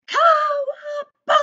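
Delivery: high, loud whoop of Cowabunga; loud, joyful yell read from the page; excited exclamation. Shown as a demonstration. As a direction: shout it like a surfer riding the wave. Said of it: "words with the exclamation marks".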